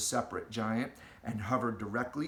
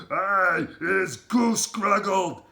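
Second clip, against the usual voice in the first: slow, higher, loud howl; howling giant; 6 semitones higher, 9 dB louder, much slower than usual. Acted. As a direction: howl the complaint out slowly. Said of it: "howled the man hugger".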